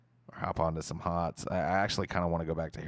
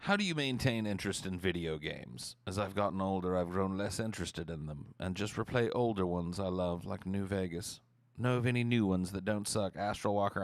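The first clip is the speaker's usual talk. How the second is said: lightly put-on British accent. Reading Astral Walker's question about video games, mild British accent. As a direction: read it out with a touch of British. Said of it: "gave you a British accent".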